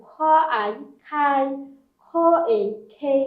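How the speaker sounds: aspirated "খ", then "আই", then joined as "খাই"; blending syllables. Shown as a demonstration. Teacher showing k syllables, initial and final sounded out then blended. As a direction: sound out "খ, এ, খেই" with pauses before each blend. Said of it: "কে এর sound হচ্ছে খ".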